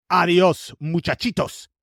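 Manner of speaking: hammed-up Spanish kiss-off; mock defiant farewell. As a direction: call out a cheeky goodbye. Colonies bid the old empire farewell.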